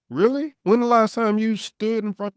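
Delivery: sharp high disbelieving jab; incredulous. Real, not acted. Challenging the critics' double standard, incredulous. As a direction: shoot back in disbelief.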